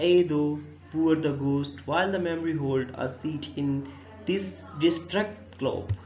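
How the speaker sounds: very slow, drawn-out recitation; slow verse reading. Acted. Teacher reciting Hamlet's lines to the ghost, slow recitation. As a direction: stretch each word of the verse.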